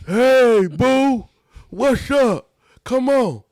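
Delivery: high, put-on come-hither call; hammed-up bedroom invitation in a high voice; mock come-on. Partner in overalls calling boo to bed, mock seductive.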